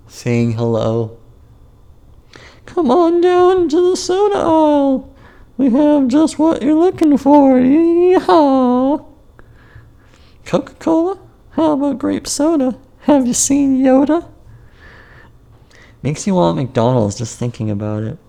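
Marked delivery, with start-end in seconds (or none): 2.7-14.3 very high, squeaky cartoon salesman voice; voice of the soda aisle. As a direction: call out like a chirpy shop jingle. Voicing the soda aisle calling.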